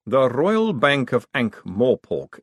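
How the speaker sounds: slow, deliberate statement; Vetinari. Acted. Vetinari explaining the ledgers to the room, slow and deliberate. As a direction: lay it out with icy patience.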